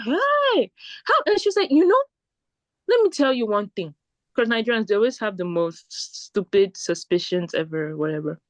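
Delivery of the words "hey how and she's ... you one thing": put-on Nigerian accent. Shoe seller quoted again.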